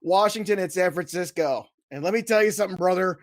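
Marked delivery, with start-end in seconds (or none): 1.9-3.2 light wrestling promo voice; hint of a hype wrestler. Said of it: "I'm gonna cut a wrestling promo".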